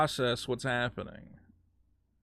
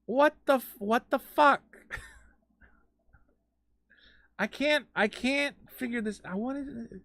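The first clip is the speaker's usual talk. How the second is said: lingering disbelief; 8 semitones higher than usual. Real, not acted. Still stunned, quieter.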